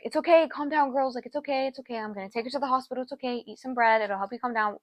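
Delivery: a hint of a soothing mother, soft and reassuring; calm the crying girls gently; soothing mom. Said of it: "her mom was like".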